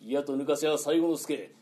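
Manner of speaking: loud, rolling highwayman's challenge; bandit's challenge. Shown as a demonstration. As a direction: declaim it like a robber stepping out. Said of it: "バッと飛び出てこう声かけんだ".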